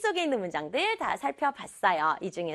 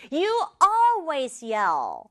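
slow, raised-pitch acted outburst; anger bursting out; 4 semitones higher, 4 dB louder, much slower than usual. Girl finally blows up at her brother, acted anger. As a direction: stretch always in mild anger. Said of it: "분노가 터지는".

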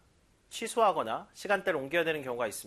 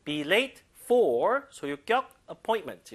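slow, stressing move; slow model reading; 4 dB louder, much slower than usual. Shown as a demonstration. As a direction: read it out slowly for students. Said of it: "들어볼게요".

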